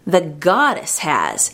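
slow, drawn-out retort, mildly acted; mock retort. Businessman answering the speaker's blessing, mock retort. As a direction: draw out a contradicting reply, imitating him. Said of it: "he retorted".

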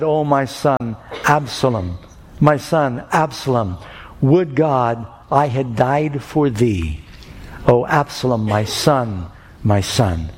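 slow, understated mourning read; mild sorrow, pausing and sinking on each phrase; grieving lament. Acted. King David weeping for his dead son Absalom, slow grieving lament.

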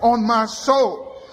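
crying out in prayer; cried out. Acted. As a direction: call his name upward. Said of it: "I've cried out".

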